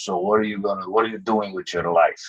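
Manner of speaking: lightly imitated broken-English accent. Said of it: "with a broken accent".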